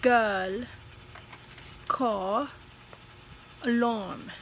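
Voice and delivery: put-on vowels leaned on in "girl", "car", "alarm"; stressed vowel. Shown as a demonstration. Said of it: "you should always stress the vowel sound".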